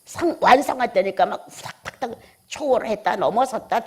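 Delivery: usual speaking voice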